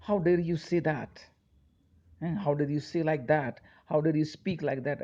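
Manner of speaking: slow, high outraged How dare you; indignant. Shown as a demonstration. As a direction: deliver each word with disbelief. Teacher demos outraged exclamations. (नाराज़गी से धीमे, ऊँचे स्वर में)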